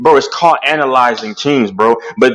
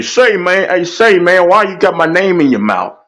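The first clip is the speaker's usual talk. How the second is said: mock rival; 5 semitones higher than usual. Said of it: "And then he'll say".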